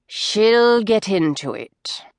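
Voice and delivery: slow, a touch of menace in it; quiet menace. Acted. Mother insisting the bride will fit, mild menace. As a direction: lean on each word, a mild threat. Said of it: "cut in Missus Bridges with quiet menace".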